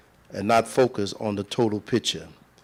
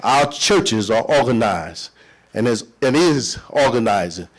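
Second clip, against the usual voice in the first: rally speech. Real, not acted. Vows to fight.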